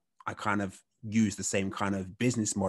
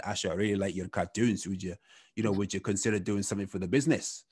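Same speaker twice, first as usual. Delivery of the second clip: lightly put-on Scottish accent; a hint of a Scottish boss. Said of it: "Terrible Scottish accent".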